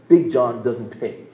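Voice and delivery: slow, heavy, changed tough-guy voice; hulking bully drawing it out; slow menacing giant. Retold or imitated. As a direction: lean on each word to intimidate. Giant's line, third time.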